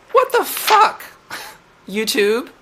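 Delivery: shocked yelp. Real, not acted. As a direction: burst out, stunned. Shock at bot reply.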